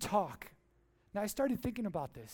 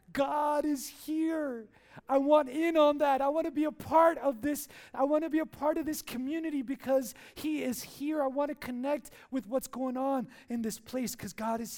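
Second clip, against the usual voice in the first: raised, emphatic voice, easing toward the end; acted eager excitement; 4 semitones higher, 5 dB louder than usual. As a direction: proclaim it as a newcomer bursting to join. Acts newcomer eager to join in.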